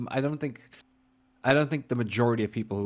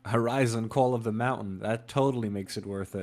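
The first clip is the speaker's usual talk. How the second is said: sarcastic. Acted. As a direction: sell the bundle with tongue in cheek. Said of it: "Sarcasm intended".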